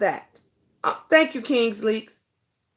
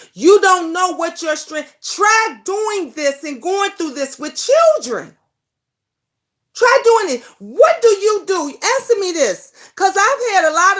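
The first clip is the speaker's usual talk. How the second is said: real heated outburst; 3 semitones higher than usual. Real, not acted. Challenging viewers who judge abused mothers, raised and heated. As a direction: fire it back at the doubters.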